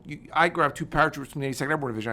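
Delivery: usual speaking voice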